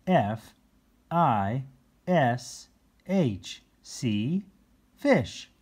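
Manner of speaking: loud, excited spelling out; high excited teacher; eager teaching. Acted. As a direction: thrill the cats with the word. Nick eagerly teaches cats.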